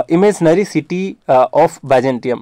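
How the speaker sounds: very slow English phrase, each word spaced; slow dictation. Shown as a demonstration. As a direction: drag the words out for notes. Teacher dictating key notes. (धीमी आवाज़ में शब्द-दर-शब्द)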